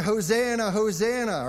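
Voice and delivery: imitating a crowd shouting praise; mock crowd cheer. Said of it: "they were screaming".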